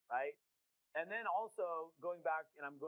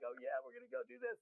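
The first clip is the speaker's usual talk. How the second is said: high, gushing conference high; mock excited attendee; 8 semitones higher than usual. Attendee gushing to their team, hammed-up excitement. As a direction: imitate a fired-up attendee leaving the event. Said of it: "You're excited".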